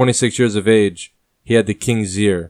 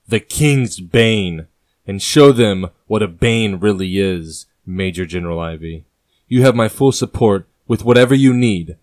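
louder, commanding and upbeat; optimistic and fierce; 5 dB louder than usual. Acted. King dispatches Major General Ivy, fierce and optimistic. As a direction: send him off with fierce confidence. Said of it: "The king's tone is optimistic and fierce".

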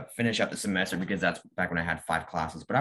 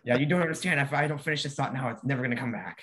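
mock desperate; 6 semitones higher than usual. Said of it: "acting the obsessed student".

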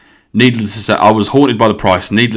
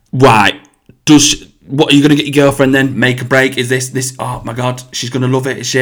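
raised, gushing Nottingham impression; Nottingham hairdresser; 5 semitones higher, 4 dB louder than usual. Hairdresser cutting in about girlfriend's present, imitated Nottingham accent. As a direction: butt in like a glam Nottingham mum. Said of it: "She's like".

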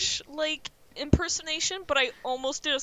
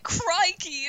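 mock Australian; 4 semitones higher, 4 dB louder than usual. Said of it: "it's like".

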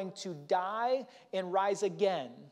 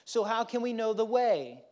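higher-pitched mock interrogation; skeptical Thomas; 4 semitones higher, 3 dB louder than usual. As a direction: demand the details like a skeptic. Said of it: "speaking realism into this".

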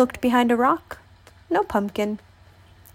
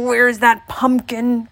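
croaked; 2 semitones higher, 4 dB louder, slower than usual. Acted. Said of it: "croaked the old man".

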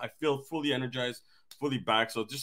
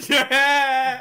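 much higher and louder auto-tuned yeah; auto tune voice; 13 dB louder than usual. Real, not acted. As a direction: stretch it through auto tune. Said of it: "You hear that?".

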